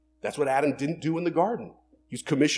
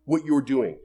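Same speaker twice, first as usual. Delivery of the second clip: loud firm rebuke; a touch of indignant command; indignant Jesus; 4 dB louder than usual. Acted. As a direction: scold the disciples firmly. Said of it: "He was like".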